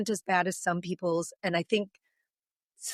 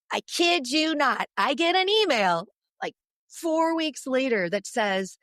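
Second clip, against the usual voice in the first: slow, deliberate, louder for the reveal; slow emphatic build; 5 semitones higher, 3 dB louder, slower than usual. Real, not acted. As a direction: draw it out, each word weighted.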